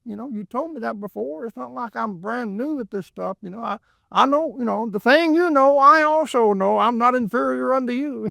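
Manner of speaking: lightly voiced retort to a long-winded talker; exasperated inner retort. Stuck at a business hearing a man repeat himself, mildly indignant. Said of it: "I thought".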